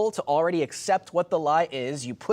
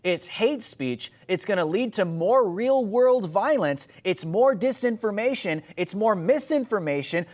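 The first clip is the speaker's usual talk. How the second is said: mocking quote. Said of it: "what they're gonna say is".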